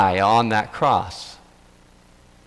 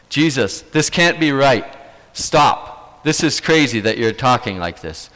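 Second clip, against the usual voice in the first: mild acted rebuke; 2 semitones higher than usual. Peter taking Jesus aside to straighten him out, a mild rebuke. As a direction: push back on him, half pleading, half scolding. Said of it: "he starts to rebuke him".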